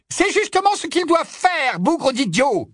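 high-pitched angry yell; vociferating. A narrator's reading. Professor berating the caretaker, vociferating. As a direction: berate him at the top of the range. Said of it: "vociféra McGonagall".

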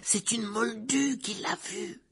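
eager gossip, a touch breathless; excited. Acted. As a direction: tell the news excitedly. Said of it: "l'air surexcité". (un peu surexcité)

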